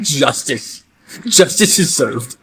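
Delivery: slow, deliberate gloat; slow mock justice line. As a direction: savor it like a verdict. Cafeteria cheers bully's punishment.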